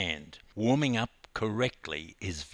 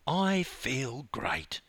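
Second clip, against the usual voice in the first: beaming; 3 semitones higher, 3 dB quieter, much slower than usual. Acted. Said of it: "she beamed".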